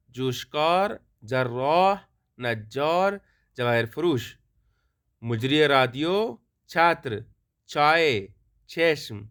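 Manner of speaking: word-by-word model reading; measured list reading with pauses between words; pronunciation drill. Shown as a demonstration. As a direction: read out each word separately for learners. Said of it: "اب صرف ان کا تلفظ کرنا ہے".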